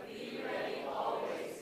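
slow whisper of Be ready always; soft secret whisper. Shown as a demonstration. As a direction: breathe the words out with no voice. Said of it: "emphasize each word every time".

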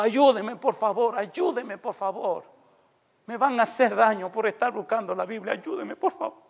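high-pitched pleading, no real shout; retold cry for help. Woman begs the preacher during blackout, retold high plea. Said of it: "Y ella me gritaba".

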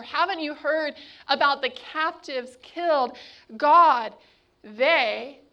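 urgent, insistent complaining to God; a prophet protesting to God in mock outrage; Jonah's indignant protest. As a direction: argue your case, pressing hard. Jonah voiced pleading with God.

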